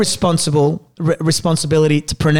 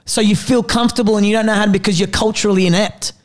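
raised pitch, fast and insistent; passionate rant; 4 semitones higher than usual. Real, not acted. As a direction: push hard, fired up. Heated rant about names.

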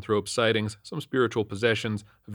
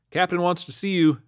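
higher-pitched, singsong notice; sergeant's summons; 9 semitones higher, 3 dB louder than usual. A narrator's reading. Sergeant summons officer to captain, calling out. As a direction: deliver it as a called-out message.

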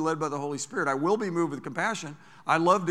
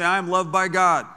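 loud call to repeat; congregation call; 2 semitones higher, 8 dB louder than usual. Real, not acted. Preacher calling the congregation to declare loudly. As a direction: lead the crowd in a loud declaration. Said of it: "Everybody say".

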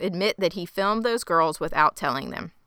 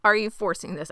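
exasperated outburst; 4 semitones higher, 10 dB louder than usual. Real, not acted. Exasperated at the show's plot.

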